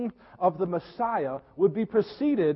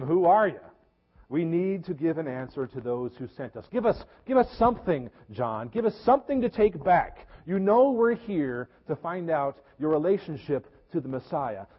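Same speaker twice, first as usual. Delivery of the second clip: pleading demand; 2 semitones lower than usual. Acted. Envoys pleading with John for answers.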